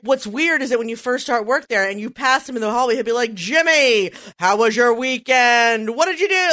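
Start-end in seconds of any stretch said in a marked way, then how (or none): 3.3-6.5 announcer voice. Retold or imitated. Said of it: "he just talks that way".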